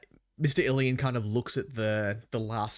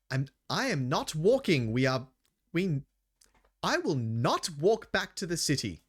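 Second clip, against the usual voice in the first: lightly voiced daughter; 6 semitones higher than usual. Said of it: "his daughter's kind of, like, still at the back going".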